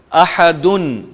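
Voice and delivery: احدن ending in an n sound, ahadun; nunation with un. Shown as a demonstration. Teacher showing double damma with its n. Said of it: "جیسے".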